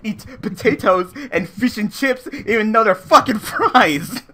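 put-on British accent; mock posh English voice. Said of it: "with my British accent".

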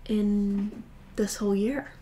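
stifling a yawn; holding back a yawn. Real, not acted. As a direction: talk through a suppressed yawn. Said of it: "I'm trying to hold back a yawn".

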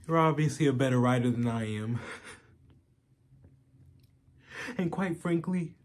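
halting, earnest plea broken by long pauses; BoJack Horseman. Acted. Asking Diane if it's too late for him, halting and pleading. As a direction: vulnerable confession, searching for reassurance.

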